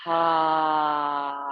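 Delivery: big open-mouth sigh on the exhale; dramatic sigh. Shown as a demonstration. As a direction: let the whole breath go out the mouth. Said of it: "And then big sigh".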